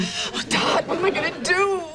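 half-laughing, half-crying plea; laughing sob. Acted. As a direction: wail through tears and laughter.

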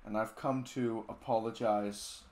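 hammed-up somber YouTuber apology; mock apology video.

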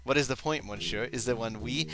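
a hint of mock French accent; lightly voiced Frenchman. Reading a pilot's line with a hint of French accent. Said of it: "So you're French".

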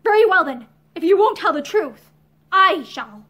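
loud, forceful outburst; vehement. Acted. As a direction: burst out with force. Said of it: "she broke out vehemently".

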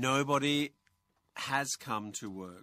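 very slow, has stressed; slow model answer. Shown as a demonstration. Teacher models the answer to the co-host, very slow. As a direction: lay out has come clearly. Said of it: "how to say?".

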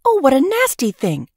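disgusted exclamation. A narrator's reading. Princess recoiling from the rose bush, a disgusted cry. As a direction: recoil from something nasty. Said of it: "she exclaimed".

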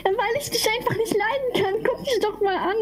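gloating taunt. Acted. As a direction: taunt him through a laugh. Babysitter gloats at locked boy.

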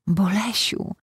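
joyful shout of a name; joyful call. Acted. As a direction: call out his name with sudden joy. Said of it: "radosny okrzyk".

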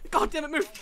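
loud, high impatient yell; exasperated shout. Real, not acted. Player orders someone to move, exasperated shout. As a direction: curse and yell at the blocker. Blocked while escaping.

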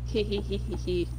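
evil laugh. Acted. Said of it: "You wanna hear, hear my evil laugh?".

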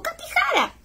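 high, surprised call of her name; recognizing her. Retold or imitated. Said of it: "me dijo".

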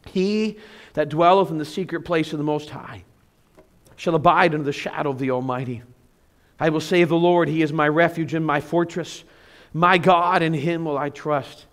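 measured, reverent reading of a psalm; a pastor reading Psalm ninety-one aloud; scripture reading. Acted.

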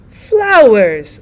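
sudden loud shriek; scream. Acted. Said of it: "screamed the old woman".

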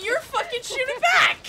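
high, loud accusation; heated high-pitched retort; indignant yell. Real, not acted. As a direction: shout back at opponents in protest. Quarrel with opponents in the game.

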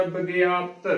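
ਵਿਗਿਆਪਤ said with a barely sounded final ਤ; correct pronunciation. Shown as a demonstration. Teacher models the word for learners, ਵਿਗਿਆਪਤ carefully pronounced with light final ਤ. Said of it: "ਇਹਦਾ ਸ਼ੁੱਧ ਉਚਾਰਨ ਹੋਵੇਗਾ".

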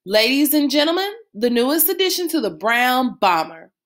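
brisk mock ringmaster; quick announcement. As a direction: hurry the big reveal before Mama gets madder. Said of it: "I talked real fast".

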